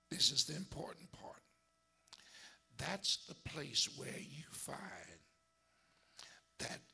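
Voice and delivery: hushed sermon whisper. Real, not acted. Pastor whispering the important part to the church, hushed. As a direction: lean in and whisper it. Preacher drops to hushed aside.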